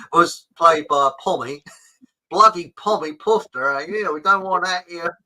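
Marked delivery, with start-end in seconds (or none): 2.3-5.2 hammed-up Aussie indignation, a little louder; mock outraged Australian. Co-host mimicking Australians upset over Ned Kelly casting, mock outraged Australian. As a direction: put on an indignant Australian accent. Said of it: "the Australians were really outraged".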